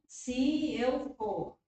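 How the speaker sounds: teacher stressing the pairing. Shown as a demonstration. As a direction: lean on "for" to show it goes with "se". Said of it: "for combina com se".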